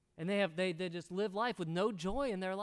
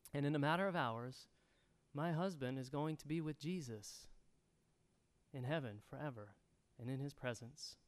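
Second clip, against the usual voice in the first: calm answer; 2 semitones lower than usual. Retold or imitated. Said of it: "she looks at the angry man".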